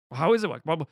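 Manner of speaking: a knight's mock panicked pleading against Death; denial and grief. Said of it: "goes through all the stages of denial and grief".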